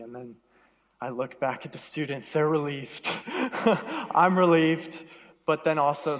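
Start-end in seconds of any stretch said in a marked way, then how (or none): 3.1-4.1 high, breathy chuckle of relief; real little laugh at himself; short laugh. Real, not acted.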